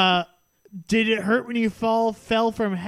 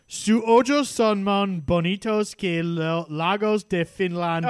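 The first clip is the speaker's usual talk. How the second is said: put-on Spanish accent; 3 semitones lower than usual. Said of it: "I like your, uh, Spanish accent".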